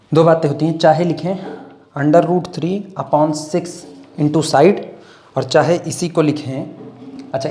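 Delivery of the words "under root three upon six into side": very slow, spaced formula; slow dictation. Shown as a demonstration. Teacher dictating a formula, very slow. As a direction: read it out slowly for notes. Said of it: "dictating formula".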